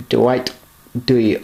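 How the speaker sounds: name in a slight put-on accent, throaty H in Eisenhower; lightly accented, in separate chunks; involuntary accent. Real, not acted. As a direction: slip into a mild accent for the name. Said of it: "I can't say it without the accent".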